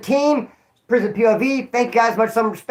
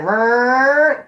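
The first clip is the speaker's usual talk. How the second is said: growl; 6 semitones higher, 5 dB louder than usual. Shown as a demonstration. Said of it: "grabbed it and went like".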